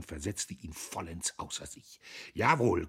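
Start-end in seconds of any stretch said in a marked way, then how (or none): 2.3-2.9 panting. A narrator's reading. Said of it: "keuchte er".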